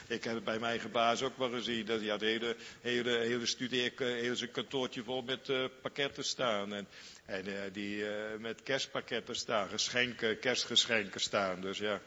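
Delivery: ordinary delivery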